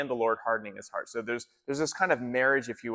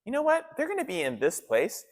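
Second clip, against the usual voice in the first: higher-pitched, casual scheming out loud; lightly voiced Pharaoh; 5 semitones higher, 3 dB louder than usual. Pharaoh reasoning about his lost workforce, lightly hammed-up. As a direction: play a ruler talking himself into a new plan. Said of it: "Pharaoh's gonna change his mind".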